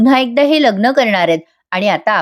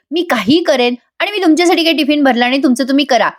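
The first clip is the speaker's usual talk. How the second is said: चढ्या स्वरातला सौम्य अभिनीत राग; चिडल्याचा अभिनय, आवाज जरा चढवून; चिडून; 5 semitones higher, faster than usual. Acted. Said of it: "Nandini चिडून म्हणते". (थोडं चिडून, उंच स्वरात)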